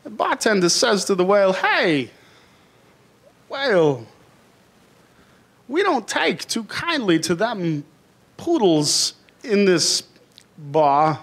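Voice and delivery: lightly voiced Walken, slow halting phrasing; a hacky Walken, drawn out; Christopher Walken. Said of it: "an impression of Christopher Walken".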